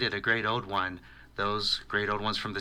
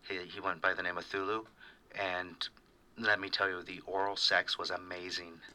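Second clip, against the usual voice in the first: sultry voice; 2 semitones lower than usual. Acted. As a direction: purr it like a late-night ad. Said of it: "a very sexy, sultry voice".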